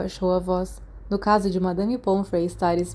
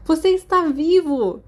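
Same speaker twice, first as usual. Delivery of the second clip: higher, louder, slowed dramatic exclamation; dramatic cry; 8 semitones higher, 5 dB louder than usual. A narrator's reading. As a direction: overplay relief at finding him. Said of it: "caiu dramaticamente". (exclamação teatral e lenta)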